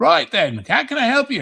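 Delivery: put-on high-pitched Cockney accent. Retelling a greeting from a post office worker: imitating a Cockney accent. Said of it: "this black guy had a Cockney accent".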